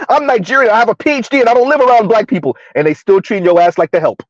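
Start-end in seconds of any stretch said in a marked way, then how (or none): 0.1-2.6 higher, put-on Nigerian accent, lightly done; mimicking a Nigerian PhD with a Nigerian accent; mock Nigerian accent. Mocking a proud Nigerian immigrant in a Nigerian accent. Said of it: "You just the help with a heavy accent".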